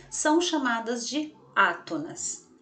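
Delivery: ordinary talk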